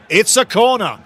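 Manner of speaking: loud, high joyful shout; excited call. Real, not acted. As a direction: call the corner out with delight. Corner awarded, excited.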